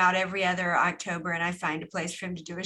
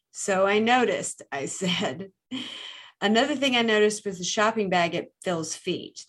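noir detective. Acted. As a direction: read it like a hardboiled narrator. Reads noir book passage aloud.

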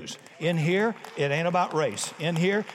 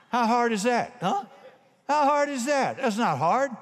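rhetorical challenge; 6 semitones higher than usual. Real, not acted. Preacher challenges congregation.

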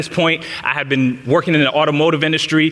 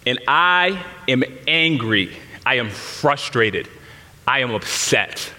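choked up; 4 semitones lower, 4 dB quieter, slower than usual. Retold or imitated. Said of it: "tears just start welling up in my eyes".

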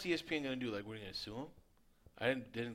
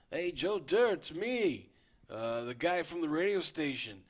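loud, raised ranting radio host; Denis Leary rant; 6 semitones higher, 6 dB louder than usual. Retold or imitated. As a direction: belt it like an angry comedian. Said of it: "his lines were".

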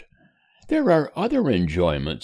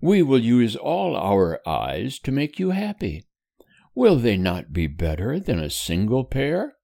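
higher, tender reassuring mother; 5 semitones higher than usual. Acted. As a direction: soothe him like a loving mother. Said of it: "rejoined Missus Temple with tenderness".

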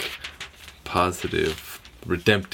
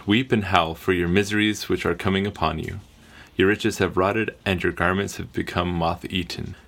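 reading voice. Acted. Official reader reads James chapter five to the group in a steady scripture-reading voice. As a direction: read it out like the appointed reader. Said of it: "Let me put my reading voice on".

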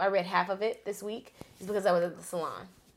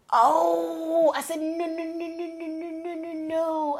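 high, frantic string of no's; retold panic, nearly crying; panicked pleading; 9 semitones higher, 6 dB louder, slower than usual. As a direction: beg in a rising panic, voice pitched way up. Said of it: "I'm crying".

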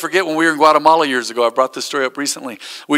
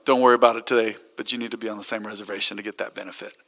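kind reassurance; 6 semitones lower, 8 dB quieter, faster than usual. Retold or imitated. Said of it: "he was so kind".

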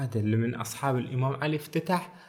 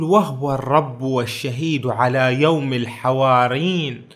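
poem recitation; 2 semitones lower than usual. Retold or imitated. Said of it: "يقول".

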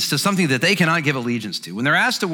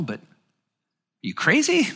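incredulous; 3 semitones higher, much slower than usual. Retold or imitated. Mock reaction to church demand.

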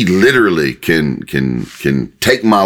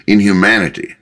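God; 2 semitones higher, faster than usual. Acted. God reminding people of their position, mildly stern. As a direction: put them firmly in their place, briskly. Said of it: "this is God saying".

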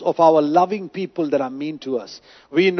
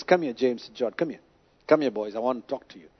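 gentle call; 7 semitones lower, 9 dB quieter, faster than usual. Acted. Jesus calling James and John aside, soft and tender. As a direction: lower and softer, tender invitation.

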